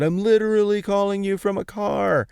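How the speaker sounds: gushing, pitched well up in mock wonder; gawking at a first cell phone, high and wide-eyed; mock amazement. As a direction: act giddy and amazed at new tech. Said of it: "gawked about how amazing it was".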